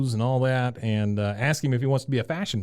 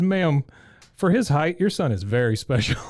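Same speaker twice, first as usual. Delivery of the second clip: salesman; 3 semitones higher than usual. Retold or imitated. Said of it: "The guy says".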